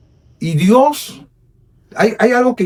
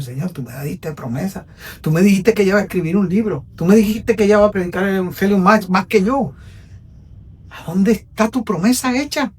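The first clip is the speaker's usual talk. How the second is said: pleading prayer; 5 semitones higher than usual. Retold or imitated. Preacher voicing his own prayer.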